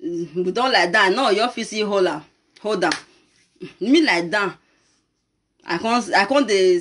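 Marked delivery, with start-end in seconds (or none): none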